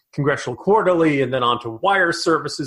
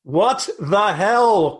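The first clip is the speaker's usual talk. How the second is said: exasperated question; 2 semitones higher, much slower than usual. Shown as a demonstration. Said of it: "question mark".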